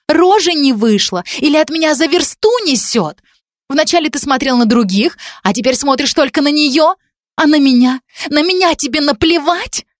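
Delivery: high, scornful, building to hatred; bitter tirade. Acted. Jealous girl taunting Dan with the knife, high and scornful. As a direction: spit out every grievance. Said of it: "крикнула девушка".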